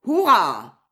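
loud, jubilant hurrah; one big exclamation, arm in the air; shouted cheer. A narrator's reading. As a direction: cry out in victory. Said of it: "en criant: «Hurrah!»".

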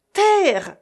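high, loud lookout shout; sudden high yell of warning; shrill cry. A narrator's reading. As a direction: call it down from the mast. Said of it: "cria tout à coup une voix aiguë".

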